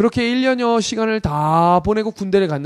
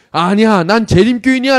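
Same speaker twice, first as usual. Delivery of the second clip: insistent inner voice; 4 semitones higher, 7 dB louder than usual. Retold or imitated. Inner voice suddenly insists on faith.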